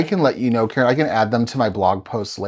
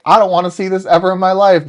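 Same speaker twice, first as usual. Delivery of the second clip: scared character voice; 9 semitones higher, 9 dB louder, faster than usual. Pretend.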